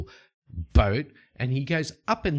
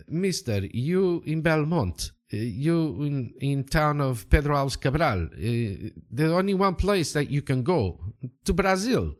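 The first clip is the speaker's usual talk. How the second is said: emphatic local stranger; 4 semitones higher than usual. Acted. Local man telling a traveller the only way, emphatic character voice. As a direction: spell it out for a lost traveller, pitch climbing.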